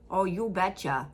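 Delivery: a light Minnesota "Oh, you betcha" with a long round oh; mildly imitating the Minnesota way of saying "Oh, you betcha"; a gentle jokey Minnesota "Oh, you betcha"; Minnesota accent. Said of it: "that's very Minnesota".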